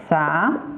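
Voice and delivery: "zapatos" syllable by syllable, with long pauses; Silbentrennung. Shown as a demonstration. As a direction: sound out "zapatos" as za, pa, tos. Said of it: "acentuando las distintas sílabas".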